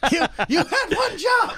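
high, slow mock reproach; mock scolding. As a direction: scold them like a disappointed parent. Scolding cohost over stream.

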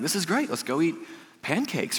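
eager churchgoer. Pretend. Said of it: "You'd be like".

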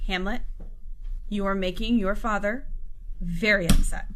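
lightly voiced reproachful queen; a mother's restrained reproach; Queen Gertrude. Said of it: "Queen Gertrude's like".

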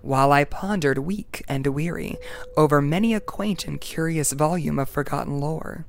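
measured dramatic poem recital; poem reading. Acted. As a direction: read it like a spooky ghost story. Reads The Raven aloud.

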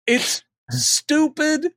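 mock disdain. Real, not acted. Amused comment.

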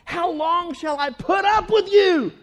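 sighing, weary lament rising at the end; weary Jesus. Retold or imitated. Jesus complaining about the crowd, weary. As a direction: groan it out, tired of them. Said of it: "He's like".

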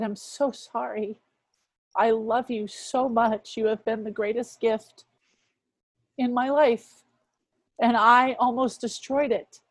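imitating a husband near tears, understated; retold tearful apology. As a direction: retell his tender apology, gently and slowly. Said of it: "to cry".

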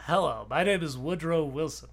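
a lightly put-on genteel Wilson; Woodrow Wilson voice. Host shows his Woodrow Wilson voice, lightly put on. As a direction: introduce yourself as a mild, gentle Wilson. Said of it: "this would be my Woodrow Wilson voice".

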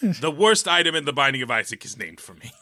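lightly voiced gloating supervillain; a hint of cartoon villain menace; slow theatrical villain menace. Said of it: "you sound like a villain that's gonna be in".

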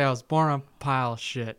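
saying "I was born on a pile of shit" while holding the tongue; tongue held. Shown as a demonstration. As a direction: talk with your tongue pinched so "born" and "shit" come out thick. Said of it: "Hold your tongue and say".

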